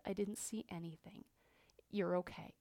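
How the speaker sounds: hushed, soothing technician; lightly voiced, quiet comfort; gentle reassurance. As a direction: softly reassure a frightened patient. Voicing technician reassuring an upset patient.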